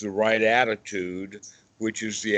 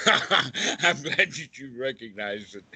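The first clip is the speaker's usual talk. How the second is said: amused; 4 semitones higher than usual. Real, not acted. Amused at absurd example recognised.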